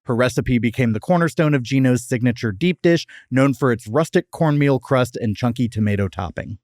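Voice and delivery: scripted history read, neatly phrased; podcast fact read. Acted. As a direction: read it out like a prepared segment. Reads the prepared history segment.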